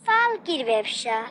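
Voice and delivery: disdainful echo. Acted. Groom's sister sneers at father's trade.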